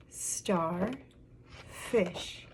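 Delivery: "star" rising, pause, "fish" falling; syllable by syllable. Shown as a demonstration. Teacher showing a word's syllables, broken apart. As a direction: say "star" and "fish" as two separate parts. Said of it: "count some of the syllables".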